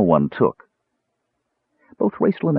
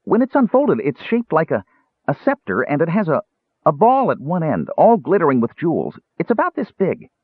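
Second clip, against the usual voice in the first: very high, hurried explanation; high-pitched kender rattling on; 10 semitones higher than usual. A narrator's reading. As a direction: stumble eagerly through a description. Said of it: "Tass continued more hurriedly".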